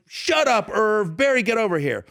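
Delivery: high, exasperated mock yell; a rapper yelling back. The rapper silencing Irv and calling Barry over, mock yell. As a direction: imitate someone overruling a heckler and summoning a guest. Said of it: "they're yelling back and forth".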